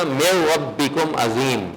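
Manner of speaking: slow "میو ربکم عظیم" with modest stretching; recitation demo. Shown as a demonstration. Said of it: "میو نہیں پڑھنا".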